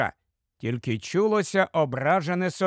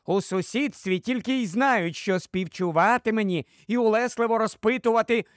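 higher-pitched aggrieved wife's tirade; sharp-tongued wife, fed up; 5 semitones higher than usual. Acted. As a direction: pour out grievances at the husband. (роздратована тирада дружини)

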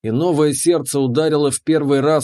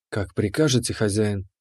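lower, softer bowing servant voice; obedient keeper; 5 semitones lower, 5 dB quieter than usual. Acted. The keeper bows to her master, low and soft. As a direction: answer like a devoted servant.

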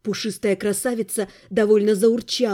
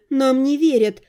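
slightly hurt. Acted. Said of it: "чуть обиженно вздохнула".

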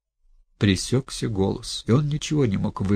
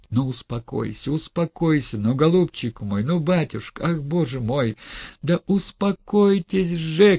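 frantic shout; 6 semitones higher than usual. Acted. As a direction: shout at him wildly to calm down. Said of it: "крикнула она неистово".

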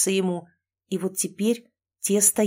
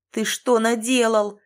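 yelling; 3 semitones higher, 4 dB louder than usual. Acted. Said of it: "завопил Ричард на отца".

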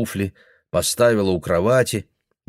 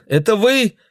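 put-on hopeful girl; 14 semitones higher, 5 dB louder than usual. Girl calling through door.

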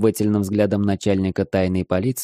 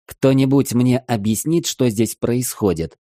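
angry demand; 4 semitones higher than usual. Acted. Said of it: "зло спросил я".

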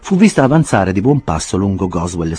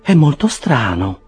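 Mrs Bardell puzzled; 8 semitones higher, slower than usual. A narrator's reading. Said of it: "esclamò la signora Bardell".

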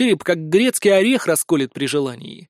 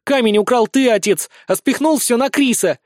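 higher, louder blurted accusation; 7 semitones higher, 4 dB louder than usual. A narrator's reading. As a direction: fire it straight at him. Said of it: "выпалила тигрица".

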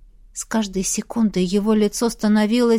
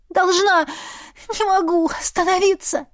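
desperate; 8 semitones higher than usual. Acted. Heroine in compulsion.

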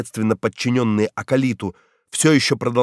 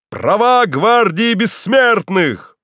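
higher, louder, slow rallying cry; crowd shout; 8 semitones higher, 4 dB louder, much slower than usual. A narrator's reading. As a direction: shout the demand like a mob. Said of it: "постепенно усилившийся до крика".

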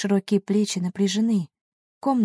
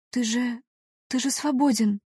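disbelieving; 5 semitones higher than usual. A narrator's reading. Heroine disbelieving, pitch high.

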